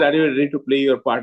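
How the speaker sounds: ordinary talk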